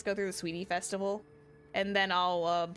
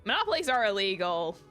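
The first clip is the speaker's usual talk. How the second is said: louder, indignant objection; loud protest; 3 semitones lower, 6 dB louder than usual. Acted. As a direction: call the merchant out. Objecting to merchant's monopoly.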